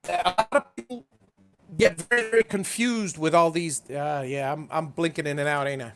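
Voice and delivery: choppy, breaking-up call audio; choppy audio cutting in and out; glitchy robotic call. Real, not acted. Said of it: "you're choppy as all heck right now".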